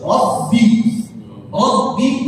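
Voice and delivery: "rabbi" slow, holding the voiced double b; correct doubled B. Shown as a demonstration. Teacher shows students the doubled letter, slow "rabbi" with held b. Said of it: "ba musyaddadah, ba sukun".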